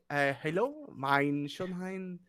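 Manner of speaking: put-on slow, soft, halting Dutch accent. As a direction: feel your way through a Dutch accent. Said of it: "Netherlands accent".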